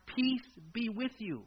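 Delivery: slow, softened blessing; gentle greeting. Acted. Jesus greeting his frightened disciples, slow gentle reassurance. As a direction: offer it slowly and calmly.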